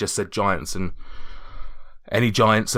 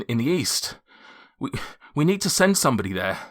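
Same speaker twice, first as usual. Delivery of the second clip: out of breath; 5 semitones higher than usual. Acted. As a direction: gasp it out like a boy who just ran to town. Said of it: "I'm out of breath just pretending to be the guy that's run there".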